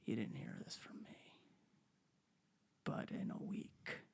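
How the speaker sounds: hushed secretive whisper; confiding a secret. Retold or imitated. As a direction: whisper it like a tip-off. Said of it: "comes up to you and tugs on your coat and goes".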